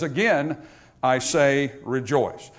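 "Again" set apart, then "I say rejoice" slow and deliberate; measured emphasis on "Again" and "rejoice"; emphatic repetition. Retold or imitated. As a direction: pause after "Again", draw out "I say rejoice". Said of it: "by way of emphasis".

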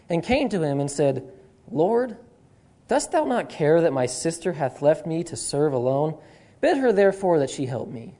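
slow, measured Bible reading; solemn pulpit reading with weighted phrases; scripture reading. Acted. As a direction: read the passage out deliberately, pausing between phrases. Reads the Bible passage aloud.

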